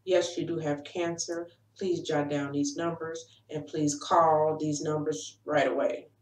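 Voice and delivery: a hint of a flat, cold doctor reading out news; mildly monotone clinical delivery. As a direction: lightly imitate a detached doctor on the phone. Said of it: "said it in a monotone, cold voice".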